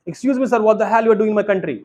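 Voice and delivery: mock-aggressive, slow and deliberate; rude challenge. Shown as a demonstration. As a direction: confront a tourist as a joke. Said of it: "नहीं, नहीं, ऐसे नहीं बोलना है।".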